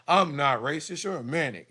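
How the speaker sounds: imitating the doctor's defensive voice; mock doctor. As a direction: parody the doctor brushing it off. Mocking the doctor's denial.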